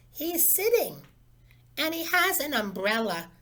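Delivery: put-on a small boy bursting in with news; excited little boy. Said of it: "said Carl".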